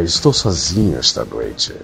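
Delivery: low, soft lonely night DJ voice; late night radio dj. Acted. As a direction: murmur it like a lonely radio host.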